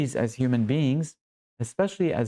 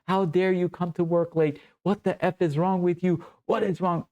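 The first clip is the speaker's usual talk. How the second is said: higher-pitched scolding, no real yell; mock angry boss; 5 semitones higher than usual. Boss scolding a young worker who came late, mock outrage. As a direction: act out a boss's tirade without screaming. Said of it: "your boss screams and yells at your face".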